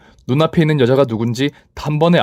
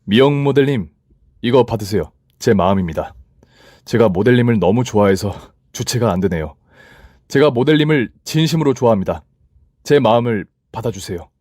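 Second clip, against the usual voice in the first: a hint of a man confessing, earnest; earnest love confession, lightly voiced; lightly voiced CEO; 2 semitones lower than usual. (가볍게 연기한 대표의 고백)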